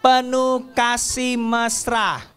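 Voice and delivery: put-on slow, loud, drawn-out verse chant for kids; slow recitation. Teacher leading children through a memory verse, slow and loud. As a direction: lead the class word by word.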